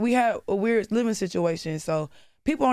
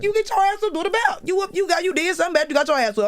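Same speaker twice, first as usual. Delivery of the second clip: worked-up disbelief; 11 semitones higher, faster than usual. Real, not acted. Indignant rant about whoopings.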